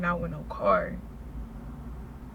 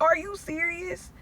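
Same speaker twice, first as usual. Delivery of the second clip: exasperated retort; 4 semitones higher, 5 dB louder than usual. Retold or imitated. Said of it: "I'm like".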